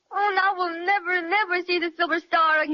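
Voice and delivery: put-on a mild childish cry in the voice; a touch of weepy despair; tearful wail. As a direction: whimper out the loss of the star. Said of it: "now don't carry on like that".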